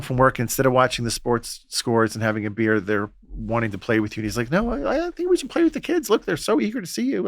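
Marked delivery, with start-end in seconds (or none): 4.5-7.3 Jesus voiced. Jesus voiced gently suggesting.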